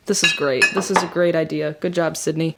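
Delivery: dry self-mocking sarcasm; deadpan, annoyed at yourself; sarcastic. Real, not acted. Just spilled coffee everywhere.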